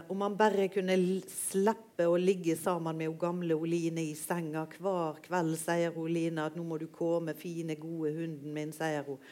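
reading a literary passage aloud, measured; gentle read-aloud of a quirky tale; story reading. Acted. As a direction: read it like a storyteller sharing a favourite book. Reads Fosse excerpt aloud.

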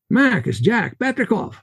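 put-on high-pitched Russian-accented Jack, rolling it out; heavy Russian accent. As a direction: do Jack's thick Russian accent. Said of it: "His Russian accent heavy".

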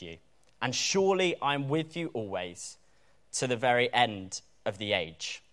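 measured reading of a Bible passage, phrases falling at the ends; scripture reading. Acted. Preacher reads the passage to the congregation, measured scripture reading. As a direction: read the verses out solemnly, phrase by phrase.

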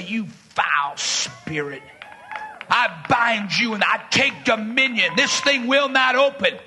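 low, slow commanding rebuke; deep, deliberate command to a demon; rebuking a spirit. Retold or imitated. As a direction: bind the spirit with authority. Preacher rebukes spirit at site.

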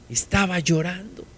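very soft, solemn repeat; hushed. Real, not acted. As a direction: let it drop to a hush. Hushed repeat of Mary weeping.

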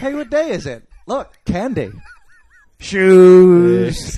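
loud, high blurting of random things; mock kid yelling random objects; shouting like a distracted kid. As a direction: blurt it out like a kid who can't focus.

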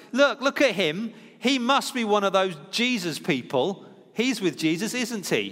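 rally the bystanders against him; accusing call-out. Retold or imitated. Servant girl calling out Peter to bystanders, high and loud.

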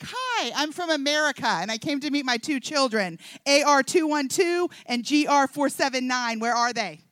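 mock-cranky American announcing herself; lightly hammed-up cranky tourist; cranky arrival. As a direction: reel it off like an irritated official demand. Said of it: "I was so cranky, it wasn't even funny".

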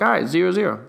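unvoiced whisper; note it under breath; hushed aside. Quoted own aside.

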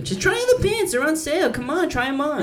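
put-on high, loud Jewish mother accent; Jewish mom accent. Mom at PacSun urging son to try pants, Jewish accent. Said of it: "I do a Jewish accent".

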